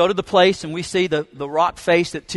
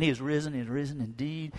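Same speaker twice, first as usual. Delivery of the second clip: softer hushed murmur; quiet and solemn; 11 dB quieter than usual. Retold or imitated. Group at the tomb speaking softly, solemn hush. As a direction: say it reverently, hushed.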